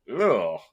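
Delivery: drawn-out "ugh" of disgust; disgusted groan. Retold or imitated. Host reacting to a gross-looking wrestling spot, disgusted groan. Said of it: "a spot that's just like".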